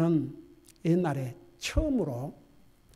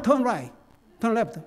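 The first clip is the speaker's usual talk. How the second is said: quicker, understated American "Turn right"; American accent; 2 semitones higher, much slower than usual. Retold or imitated. Preacher showing how Americans give directions, American accent. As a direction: imitate everyday American pronunciation, unexaggerated. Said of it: "미국 사람 발음은".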